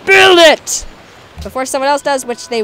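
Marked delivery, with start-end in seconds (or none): 0.0-0.8 loud, high build order; urgent shout. Real, not acted. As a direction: bark it out urgently. Urgent command.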